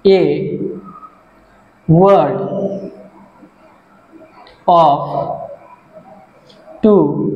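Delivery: one word at a time, long pauses between; isolated words with very long gaps; word-by-word dictation. Shown as a demonstration. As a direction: dictate slowly as if writing it out. Dictating definition while writing it out.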